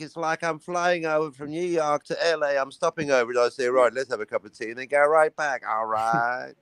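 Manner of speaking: put-on mid-Atlantic accent, hurrying mid-sentence. Shown as a demonstration. Flying New York to LA, hammed-up mid-Atlantic accent. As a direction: demonstrate a jet-setter's mid-Atlantic accent. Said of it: "call that the Atlantic accent".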